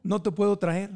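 playful God voice. Pretend. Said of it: "Diosito role continued".

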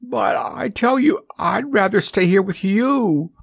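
put-on high, pleading little boy's wail; a mild wail of a little boy. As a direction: beg to stay, near tears. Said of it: "wailed the little boy".

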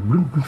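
playful motorbike revving imitation; Harley Davidson engine noise. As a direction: rev it like a big motorbike. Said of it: "Harley Davidson".

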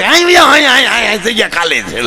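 fawning over the important man; eager welcoming call. Retold or imitated. Calling the important man eagerly to sit. Inviting a VIP to sit on the bus.

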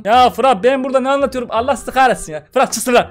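mock teacher losing patience; aggressive teacher. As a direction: snap at a giggling pupil. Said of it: "Hoca da agresif agresif konuşuyor".

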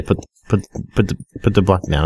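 tripping on the word put; stammering to get the words out; stuttering. Real, not acted. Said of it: "I'm stuttering".

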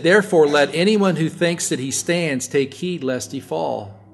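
scripture reading. Acted. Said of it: "he said".

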